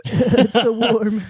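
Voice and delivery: high, loud, drawn-out words; mock freezing relief. Hiker acting out arriving cold at camp, exaggerated slow relief. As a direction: act out a frozen climber savoring warmth.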